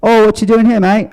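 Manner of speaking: put-on high Liverpool-ish British accent as a famous singer. Comic doing a famous singer's British accent. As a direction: pitch it up into a Scouse singer. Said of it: "Hey, famous singer".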